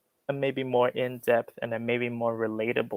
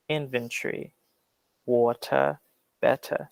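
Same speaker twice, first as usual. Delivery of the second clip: British "inventory" with the O dropped, "water" with an O sound, crisp T in "better"; British accent. Shown as a demonstration. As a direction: say them the British way, T attacked. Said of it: "in a British way, you could say".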